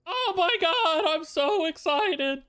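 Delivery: slow, high mock enthusiasm; answering a friend's jab with slow, high, sarcastic cheer; sarcastic excitement. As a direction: pretend to be thrilled, dripping sarcasm. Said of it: "don't sound any more thrilled".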